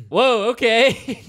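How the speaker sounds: high, loud, drawn-out retold surprise; slow, exaggerated startled response; taken-aback reaction. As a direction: imitate reeling from a blunt answer. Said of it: "I just, I reacted".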